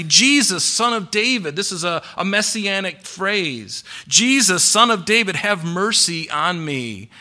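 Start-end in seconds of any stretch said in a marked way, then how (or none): 0.0-1.5 mildly raised, higher-pitched call; crying out. Retold or imitated. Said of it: "he began to cry out". 4.1-7.1 restrained retold cry for mercy. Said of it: "he began to cry out".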